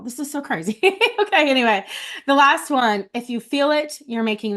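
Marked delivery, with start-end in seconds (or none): 0.0-1.8 laughing through welling tears; embarrassed laugh at getting emotional, jumping higher; real teary laugh. Real, not acted. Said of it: "I have no idea why I'm emotional".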